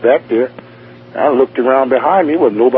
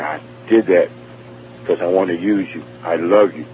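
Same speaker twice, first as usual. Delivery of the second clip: loving voice; 3 semitones lower, 3 dB quieter than usual. Retold or imitated. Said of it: "that voice said".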